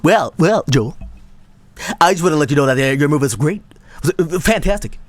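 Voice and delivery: German impersonation. Retold or imitated. Joel as Germa raving about the best movie, German accent. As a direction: keep up a hammy German accent. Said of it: "It's my German impersonation".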